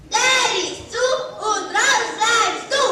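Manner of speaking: teasing taunt. Acted. Kids gloating at the locked-out wolf, taunting. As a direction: rub it in.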